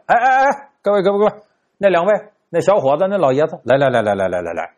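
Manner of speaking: 扯着嗓子招呼众人; 高声把人招呼过来; 吆喝招呼. Acted. 算卦先生招呼人群. (扯嗓子吆喝众人)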